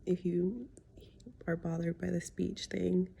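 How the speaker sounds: wearing a retainer. Real, not acted. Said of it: "I have my retainer in".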